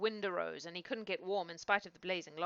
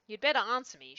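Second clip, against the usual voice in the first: shouted; 3 semitones higher, 5 dB louder than usual. A narrator's reading. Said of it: "shouted the boy".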